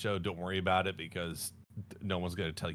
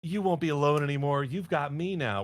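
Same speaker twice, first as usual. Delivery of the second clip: put-on dragon girl voice; 6 semitones higher, 3 dB louder than usual. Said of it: "she rescues him and is like".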